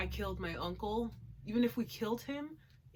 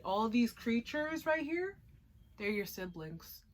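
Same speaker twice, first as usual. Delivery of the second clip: creepy villain reveal; 3 semitones higher than usual. Retold or imitated. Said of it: "He said".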